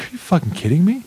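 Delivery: hushed, voiceless whisper of shock; whispered disbelief. Retold or imitated. Hearing buddy's story, whispering in shocked disbelief. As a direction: breathe it out without voice.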